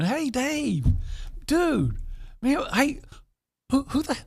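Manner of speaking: high, casual pal greeting into a question; like a buddy. Acted. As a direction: ask it as a chummy friend would. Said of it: "Yeah, like, like a buddy".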